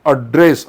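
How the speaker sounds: ॲड्रेस stressed on the second syllable, ad-DRESS; verb stress. Shown as a demonstration. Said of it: "नसून काय होतो".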